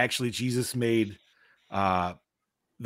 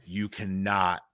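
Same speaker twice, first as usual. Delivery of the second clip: laughing quote; 8 semitones higher, 9 dB louder than usual. Retold or imitated. Retelling Kyle's warning about Cartman, laughing. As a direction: quote breaking into laughter, rising loud at the end. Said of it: "And he's like".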